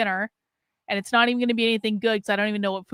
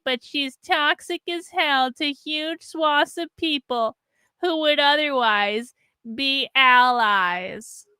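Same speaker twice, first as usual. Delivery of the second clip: slow, higher, sneering read of the critic's post; mocking tweet reading; 3 semitones higher, much slower than usual. Host reading her critic's tweet aloud, slow mocking drawl. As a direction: drag it out like a whiny complaint. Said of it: "This person responded".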